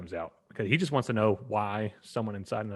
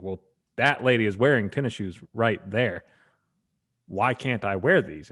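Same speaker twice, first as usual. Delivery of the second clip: louder, emphatic challenge; mock indignation, pushed louder; retold indignant protest; 7 dB louder than usual. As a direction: press the point as an imitated annoyed customer. Retold argument, repeats question louder.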